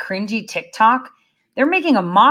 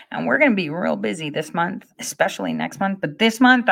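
ordinary talk

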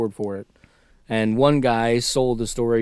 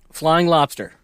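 whispered mock headline; 3 semitones higher than usual. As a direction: breathe it like a secret.

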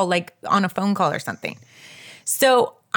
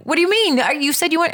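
higher-pitched protesting disbelief; incredulous; 6 semitones higher than usual. Retold or imitated. Patient challenges her backtracking, incredulous. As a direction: retell your baffled objection.

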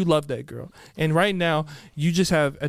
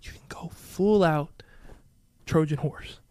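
whispering; 2 semitones lower, 5 dB quieter, slower than usual. Acted. Conspiratorial scheming advice.

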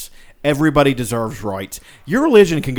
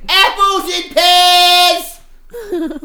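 put-on high, slow sung British accent; 6 dB louder, much slower than usual. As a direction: warble it in a hammy British accent. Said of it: "worst British accent you can muster".

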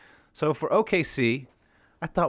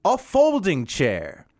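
lightly voiced comedian punchlines, higher and slow on the setups; Jeff Foxworthy bit; 6 semitones higher, slower than usual. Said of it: "This is my impressions".

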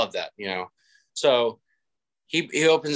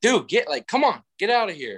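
much higher mock coach voice; coach shooing away; 9 semitones higher than usual. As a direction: shoo the guy off, imitating the coach. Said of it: "Our coach is like".

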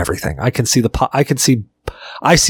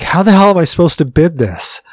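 a touch louder, panicked brother; freaking out; 4 semitones higher, 3 dB louder than usual. Retold or imitated. Brother panicking over the huge quote, mildly freaked out. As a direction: sound like the bid just blew up on you. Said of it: "He's now freaking out".

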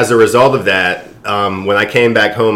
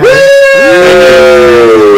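excited whoop; 8 dB louder than usual. Real, not acted. Guest cheers at introduction.

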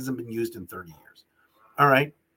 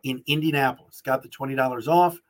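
ad read. Acted. Host reads sponsor ad.

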